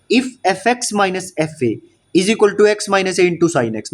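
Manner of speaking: reading the question out very slowly; slow dictation. Shown as a demonstration. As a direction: spell it out slowly for notes. Teacher dictates the problem statement. (धीमे-धीमे लिखवाते हुए)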